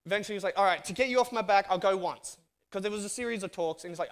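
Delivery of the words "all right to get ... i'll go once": louder, quicker, fed-up giving in; caving in just to end the nagging; exasperated giving in. Retold or imitated. Worn-down man to pestering friend, exasperated and louder.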